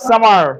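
সামার with a drawn, audible r at the end; American pronunciation. Shown as a demonstration. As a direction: pull on the final r of সামার. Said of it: "ওরা রটাকে একটা টানে নিয়ে আসবে".

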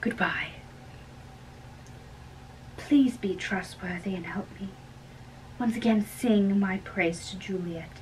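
hushed plea. Acted. Secret plan to the nurse.

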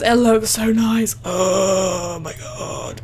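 loud, giddy and hyper; bursting with excitement, laughing. Real, not acted. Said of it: "so hyper right now".

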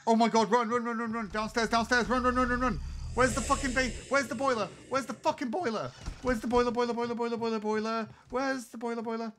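being chased. Real, not acted. Being chased, looking for boiler.

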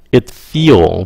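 "It feel" with a long ee vowel and no final d; feel said clearly. Shown as a demonstration. Teacher showing students the feel sound against failed. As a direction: say "It feel" as a long ee with nothing after the l. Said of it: "Các bạn nghe kỹ nè".

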